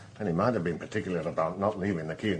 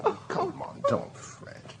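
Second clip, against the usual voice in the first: breathy near-whisper, soothing her; soft, unvoiced reassurance to a tearful wife; hushed comfort; 5 dB quieter, slower than usual. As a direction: hush her gently so she stops fretting. Husband soothing upset wife.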